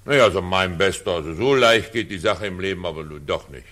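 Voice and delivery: loud, know-it-all scolding; condescending lecture. Acted. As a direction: put the upstart in his place, firmly. Director lectures the young beginner.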